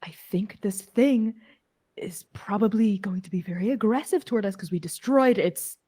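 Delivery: hushed, soft aside to the party; conspiratorial whisper. Acted. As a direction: whisper a cautious plan to your companions. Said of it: "I'm gonna whisper and I'm gonna say".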